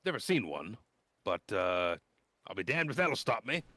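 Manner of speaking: put-on nervous teen introducing himself; eager boy scout. GM plays the young scout Klistron.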